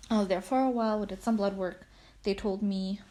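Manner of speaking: breathless, catching breath between words. Real, not acted. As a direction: talk while short of breath. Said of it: "sorry, I'm, like, out of breath".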